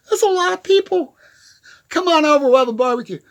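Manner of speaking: high, loud, thrilled cheer; excited outburst. Real, not acted. Vlogger celebrating his followers: high, loud, thrilled. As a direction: whoop it up for the crowd.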